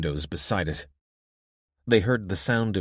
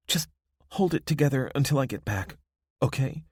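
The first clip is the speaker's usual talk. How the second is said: pleading woman voice; 7 semitones higher than usual. Acted. Abby pleading.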